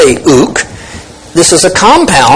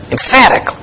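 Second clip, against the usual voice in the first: EMPHATIC said higher, set apart after a pause; emphatic delivery; 7 semitones higher than usual. Shown as a demonstration. Preacher underlining the Greek wording, emphatic EMPHATIC. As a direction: lift the word EMPHATIC and let it stand alone. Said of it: "he's emphatic".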